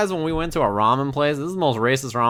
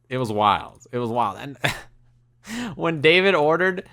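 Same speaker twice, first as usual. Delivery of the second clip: ordinary delivery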